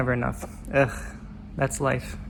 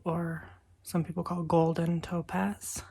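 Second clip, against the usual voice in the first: whisper; 6 dB quieter, slower than usual. Real, not acted. Quiet morning crystal talk.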